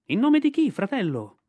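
high, loud bird-like call; a shrill kite's cry turned into words. Acted. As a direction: kite calling back to the boy. Kite answers Mowgli.

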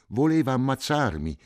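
panicked yell; frightened shout. A narrator's reading. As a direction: shout it in terror. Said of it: "gridò Cinto".

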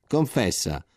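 più forte, accusa a muso duro; urla rabbiose. Acted. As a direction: aggredisci a parole mentre picchi. Soldati furiosi picchiano il soldato. (soldati inferociti accusano il disgraziato, gridando più forte)

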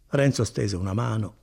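plain reading voice

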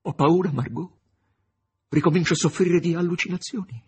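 high, loud cry of fear; frightened cry. A narrator's reading. The master crying out his fear to Margherita, high and loud. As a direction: cry out in terror. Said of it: "gridò".

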